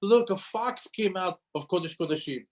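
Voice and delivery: high-pitched mock lament; retold crying dismay. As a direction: cry out in dismay, lightly acted. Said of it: "they started to, to cry".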